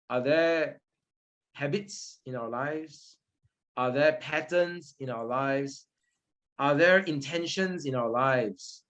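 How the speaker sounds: slow, gentle, inviting reflection; slow reflective questions. Real, not acted. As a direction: let each question sink in.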